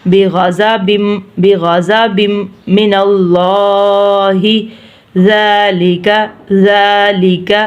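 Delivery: slow, measured tajweed recitation; Quran recitation. Shown as a demonstration. Teacher reciting for learners, measured tajweed. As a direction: recite each phrase evenly, holding the long vowels.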